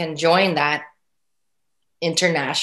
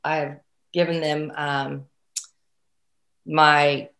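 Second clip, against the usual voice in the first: brain freeze; 3 semitones lower, 3 dB quieter, slower than usual. Real, not acted. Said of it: "oh, I'm having a brain freeze right now".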